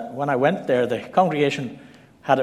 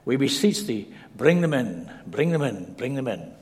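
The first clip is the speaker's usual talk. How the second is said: put-on good Scottish accent. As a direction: mimic an old Scot's lyrical pleading prayer. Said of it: "in a good Scottish accent".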